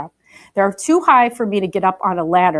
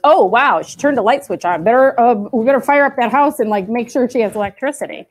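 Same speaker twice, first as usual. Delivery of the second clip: mock power company; 2 semitones higher than usual. Teacher voicing the electric company reacting to a switch, lightly mocking. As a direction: play the startled power company, half-joking.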